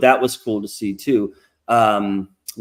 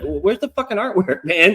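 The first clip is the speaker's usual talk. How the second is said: exasperated quote; 6 semitones higher than usual. Retold or imitated. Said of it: "and I'm just like".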